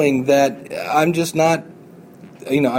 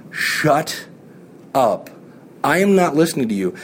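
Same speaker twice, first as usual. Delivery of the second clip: brush-off. Shown as a demonstration. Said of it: "Just politely flip him or her off and say".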